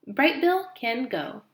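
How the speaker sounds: slow, even robot voice. Acted. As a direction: speak slowly like a calm robot. Robot answers slowly.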